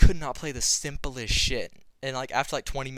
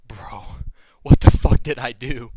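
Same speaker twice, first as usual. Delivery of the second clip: whispered panic; 13 dB louder than usual. Retold or imitated. Panicked inner thought while high.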